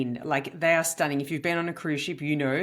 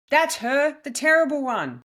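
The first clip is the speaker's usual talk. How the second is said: high, raised-voice pointing-out; retold yell; 9 semitones higher, 6 dB louder than usual. Comedian quoting a woman spotting her, mock yell. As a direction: imitate a passenger yelling across the room. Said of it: "A woman yells".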